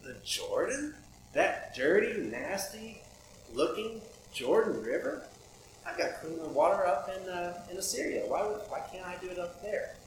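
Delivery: a hammed-up huffy Naaman; mock outrage. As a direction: scoff at the muddy river like an offended general. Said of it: "He went away angry".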